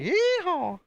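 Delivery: high, whooping cowboy American accent. Shown as a demonstration. Streamer joking after listing American regional accents, high American twang. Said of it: "I can do some American accents".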